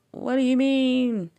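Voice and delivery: high, slow baffled question; confused child. Retold or imitated. Young daughter puzzled by mom's warning, high and slow. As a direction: ask it like a puzzled kid. Child self answering mom.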